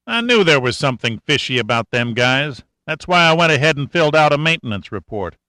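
a hint of a wry country boy; country mechanic. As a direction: talk like a sly old country mechanic. Cashman's voice, narrator reads a figure.

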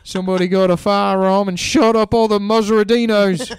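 comic Aussie breaking news; mock Aussie grief. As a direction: deliver bad news like a hammy Aussie. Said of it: "have to be like".

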